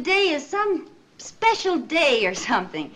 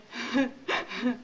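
sob; 8 dB quieter than usual. Acted. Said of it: "have a good, good cry".

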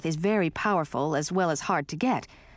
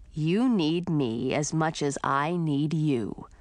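put-on serious young man; slower than usual. Edric insists.

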